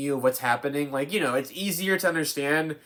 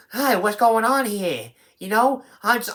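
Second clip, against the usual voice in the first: Ida; 6 semitones higher than usual. Retold or imitated. Reviewer mimicking the actress transforming back, exaggerated character impression. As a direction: imitate her switching back, pitched up. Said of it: "transforms back into Ida going".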